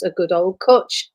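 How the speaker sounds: cwtch said slowly, rounded oo like cootch; Welsh word. Shown as a demonstration. Explaining the Welsh word cwtch to the host, slowly. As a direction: linger on cwtch, rising at the end. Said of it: "what is a cwtch".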